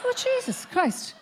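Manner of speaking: high, soft laughing gasp of horror; mortified realisation. Real, not acted. Comedian realising the stranger is her husband, high mortified laugh. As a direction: squeak out the awful discovery. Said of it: "I got an awful land".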